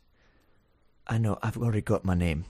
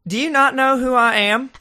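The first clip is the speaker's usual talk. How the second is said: indignant diva, higher and louder; different voice; 11 semitones higher, 10 dB louder than usual. Acted. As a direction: demand the way like an offended star. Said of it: "I was just doing a different voice".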